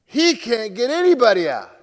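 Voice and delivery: loud, mocking cry of alarm; a hammed-up fan shouting not to throw Smith; mock panicked fan. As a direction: blurt it out like a worried fan. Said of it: "they put him out in the seventh inning and go".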